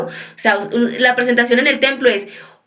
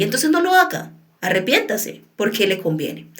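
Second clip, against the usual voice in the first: gentle correction; 2 semitones lower than usual. Shown as a demonstration. Preacher showing the gentle way to rebuke. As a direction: correct them lovingly, not harshly. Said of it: "Yo puedo decir lo mismo, pero es el, la forma".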